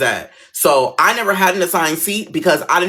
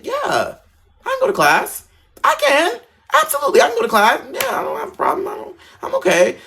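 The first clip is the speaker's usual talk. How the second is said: much higher, fast, overly eager reassurance; overeager yes. Retold or imitated. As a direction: chirp it out too eagerly to the principal. Overeager reply to principal.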